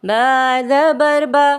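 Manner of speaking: spelling-drill recitation. Shown as a demonstration. Teacher demonstrating Qaida spelling to learners, measured drill chant. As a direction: chant each letter, then join the syllables. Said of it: "इस तरह से करेंगे".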